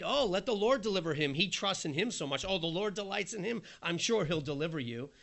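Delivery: a hint of sneering sarcasm; lightly mock the faithful man; sarcastic taunt, mildly voiced. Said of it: "You can almost hear Job's wife in there".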